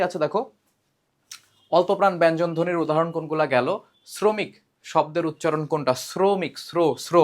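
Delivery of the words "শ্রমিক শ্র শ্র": শ্র said as sro, with a dental s sound; pronunciation demo. Shown as a demonstration. Teacher showing how শ্রমিক is pronounced, s-like. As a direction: say শ্রমিক starting with an s like in English. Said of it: "দন্ত স, এস এর মতো উচ্চারণ হয়".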